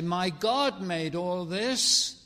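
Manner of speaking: loud, slow and emphatic; firm declaration. Real, not acted. Preacher declares his faith loudly to the congregation. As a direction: plant each word like a flag. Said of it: "I say".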